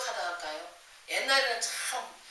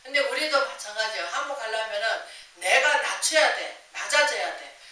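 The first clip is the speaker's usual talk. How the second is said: ordinary delivery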